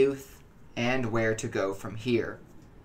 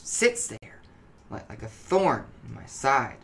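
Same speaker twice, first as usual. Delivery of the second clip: anxious, halting, stumbling over words; tense and jittery, like he can't sit still; nervous paranoid voice. Acted. Paranoid addict gives his account.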